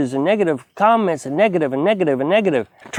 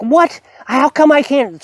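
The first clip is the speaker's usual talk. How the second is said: higher, exasperated disbelief; frustrated outburst; 7 semitones higher, slower than usual. Retold or imitated. At the post office, refused a box, a frustrated outburst. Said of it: "And so I'm getting frustrated".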